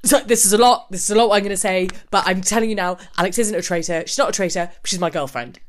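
imitated manic, stumbling announcement; mock urgent blurting to a room; manic confession. Tom stands up to confess to the room, mock manic. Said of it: "one of the most manic".

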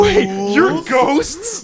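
loud disbelieving wait, you're ghosts; surprised. Acted. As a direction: pitch jumps up in mock shock. Host surprised at ghost reveal.

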